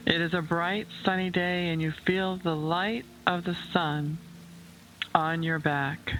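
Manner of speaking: unhurried meditation voice with long pauses; guided visualization. Acted. Host guiding listeners to picture a calm lake, unhurried meditation voice. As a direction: lead the listener gently, phrase by phrase.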